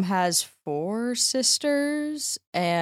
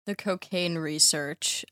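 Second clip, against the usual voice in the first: flat deadpan repeat; snarky deadpan echo of the host; 4 dB quieter than usual. Real, not acted. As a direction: echo it back with a snarky edge. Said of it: "in a snarky tone like that".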